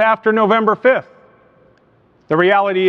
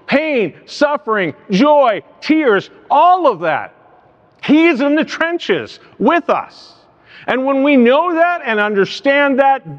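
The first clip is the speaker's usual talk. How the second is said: emphatic preaching; 3 semitones higher than usual. Real, not acted. Preacher assuring the congregation that God is with them, emphatic preaching. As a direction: build with driving conviction, punching key words. Preacher builds to his climax.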